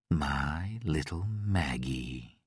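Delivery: slow, soft and eerie; cooing. Acted. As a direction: croon it like a lullaby. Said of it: "he cooed".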